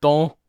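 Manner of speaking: "don't" said with no final T, French style; T dropped. Shown as a demonstration. The crowd coaches her French, "don't" without the T. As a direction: drop the T in "don't". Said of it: "Don't pronounce the T".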